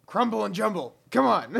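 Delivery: loud high goblin call; goblin shout. Acted. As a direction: bark it out in goblin gibberish. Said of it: "he speaks, like, in goblin".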